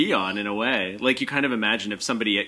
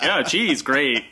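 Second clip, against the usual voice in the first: sarcastic; 3 semitones higher, 3 dB louder, slower than usual. Retold or imitated. Sarcastic quote about cheese lunch.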